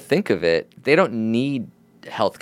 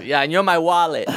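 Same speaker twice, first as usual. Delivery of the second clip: higher, put-on rapper voice; impression of a rapper; 8 semitones higher than usual. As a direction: hand out a job as the star. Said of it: "that's a good Drake impression".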